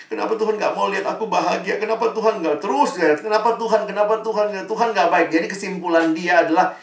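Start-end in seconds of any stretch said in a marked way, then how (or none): 0.0-5.3 put-on insistent teenage grumbling, slightly raised pitch; mildly mock indignant protest; retold angry complaint. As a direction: pile up the complaints as an imitated upset teen. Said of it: "lalu marah-marah".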